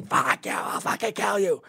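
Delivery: high, loud mock threat; hammed-up bar threat from a man; mock angry man. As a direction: bark it like a man ready to fight. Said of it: "see a man going".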